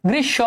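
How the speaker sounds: গ্রীষ্ম said "grish-sho"; doubled sh. Shown as a demonstration. Teacher making sure students follow, গ্রীষ্ম as "grish-sho". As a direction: hold the sh in গ্রীষ্ম, no m. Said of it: "একটু ভালো করে বুঝো".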